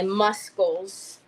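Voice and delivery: "muscles" said as MUS-kulls, the C sounded; muscles with hard C. Real, not acted. Woman joking about her arms, "muscles" as MUS-kulls. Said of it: "Yes, I said muscles".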